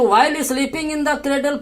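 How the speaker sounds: while sleeping in the cradle read very slowly, word by word; slow dictation. Shown as a demonstration. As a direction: dictate it slowly for students to copy. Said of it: "teacher dictating English line". (धीमा dictation)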